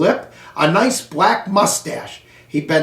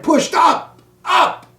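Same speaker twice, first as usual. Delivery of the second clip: rising strain; 9 semitones higher, slower than usual. A narrator's reading. Straining to climb table leg.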